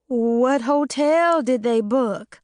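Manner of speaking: high, slow, nervous tremble; scared trembling voice. A narrator's reading. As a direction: ask it like you're afraid of the answer. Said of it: "in the same scared, trembling voice".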